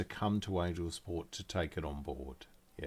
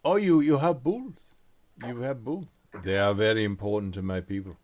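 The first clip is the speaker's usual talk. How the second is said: merchant voice; 7 dB louder than usual. Acted. Merchant NPC reacts excitedly.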